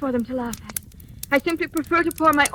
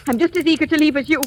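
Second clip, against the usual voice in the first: defiant; 4 semitones higher, 4 dB louder than usual. Acted. Defiant threat in a quarrel.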